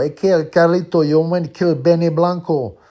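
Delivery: put-on high, loud Puerto Rican Latino accent. Quoting Carlito's Way, loud high Latino accent. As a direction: belt it in a heavy Latino accent. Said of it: "speaks in that heavy Latino accent".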